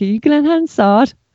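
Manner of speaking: mock, high, impish, cheeky, childlike little-kid voice. Retelling stopping someone outside the tube station: imitating own cheeky question, like a kid. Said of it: "cheeky, ... like a little kid again".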